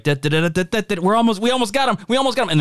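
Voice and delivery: rising, eager pursuit shout; excited chase call. Retold or imitated. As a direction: call it out mid-chase, closing in. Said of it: "they're like".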